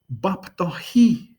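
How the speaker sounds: Bap tohi said slowly, each syllable clear; slow demo phrase. Shown as a demonstration. Teacher slowly modeling Bap tohi for viewers.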